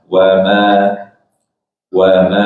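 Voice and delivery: "Wama" said with rounded lips on wa. Shown as a demonstration. Teacher models correct "Wama" with rounded lips. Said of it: "yang bulatkan bibir".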